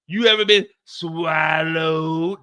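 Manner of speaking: drawn-out shouted question; slow loud call. Shown as a demonstration. Comic shouting the question at the crowd. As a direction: stretch and shout it. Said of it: "Have you ever been swallowed?".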